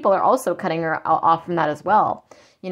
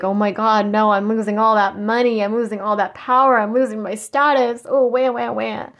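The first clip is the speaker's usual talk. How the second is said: mock whining karmic; 3 semitones higher than usual. Reader mocks the karmic crying over lost money, hammed-up whine. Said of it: "They're like".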